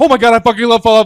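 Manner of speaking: very high, very loud, shrill, gushing rave. Showing him how he talks about Fallout, imitating Connor being very loud. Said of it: "Like you're like very loud".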